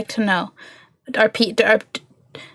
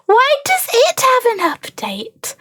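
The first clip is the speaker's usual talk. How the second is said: high, slow incredulous question; exasperated disbelief; 12 semitones higher, slower than usual. Real, not acted. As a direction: ask it in outraged disbelief. Exasperated at update.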